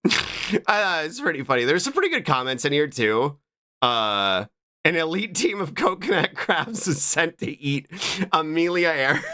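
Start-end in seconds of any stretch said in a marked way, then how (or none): 4.8-9.2 cracking up while reading aloud; reading through laughter. Real, not acted. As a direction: let laughs break into the sentence. Reading a funny comment.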